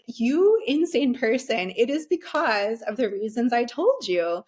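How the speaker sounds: imagine telling the surgeon off, exasperated; exasperated retort. Retold or imitated.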